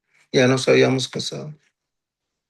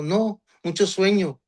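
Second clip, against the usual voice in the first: slow, slightly higher, a light imitation of an American officer's broken Spanish; mild mock broken Spanish; 4 semitones higher, slower than usual. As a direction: say "mucho sueño" slowly, like a gringo officer fumbling his Spanish, only lightly put on. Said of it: "en vez de decirnos, "Mucha suerte".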